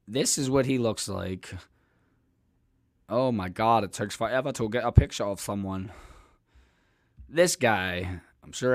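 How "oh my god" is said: normal talking voice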